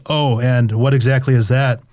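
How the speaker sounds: nervous voice cracking on the question. Acted. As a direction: let the voice crack with nerves. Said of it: "My voice cracks as I respond".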